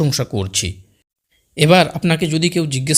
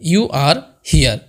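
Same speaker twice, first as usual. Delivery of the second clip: slow teaching demo; much slower than usual. Shown as a demonstration. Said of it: "অর্থাৎ তুমি এখানে".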